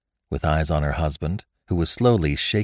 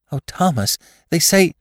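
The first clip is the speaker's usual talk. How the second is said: high-pitched worried protest; anxious wife; 11 semitones higher, 5 dB louder than usual. A narrator's reading. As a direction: plead with him, pitch climbing. Frightened wife pleading with husband.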